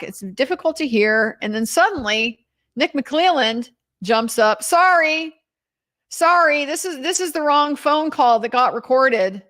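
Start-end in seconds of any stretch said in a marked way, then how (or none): 4.6-9.4 a hint of a rattled attorney; flustered lawyer. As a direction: mimic a lawyer jumping up to apologize.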